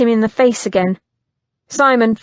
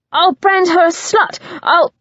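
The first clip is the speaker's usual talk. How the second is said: high, loud, taunting threat; cruel goading; 8 semitones higher, 3 dB louder than usual. Acted. Christian goads Simon with threats to Lucy, high and taunting. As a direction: bait him with each word.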